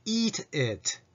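"eat it" with tense ee, then lax short i; tongue up then down. Shown as a demonstration. Teacher modelling the phrase, "eat it" with contrasting vowels. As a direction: raise the tongue on "eat", drop it on "it". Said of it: "最初舌を上げて".

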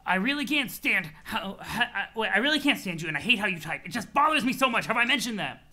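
loud, laugh-tinged mock tirade; irritable troll, exasperated. Troll tells his friend he hates how he types, exasperated. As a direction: vent at him in hammed-up annoyance.

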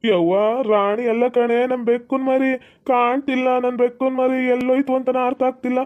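mild mock crying; lightly acted tearful pleading; acted tearful complaint. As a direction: explain the loss in a weepy, upset whine. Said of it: "ಅದಕ್ಕೆ ಬೇಜಾರಾಗಿ ಅಳ್ತವ್ನಿ".

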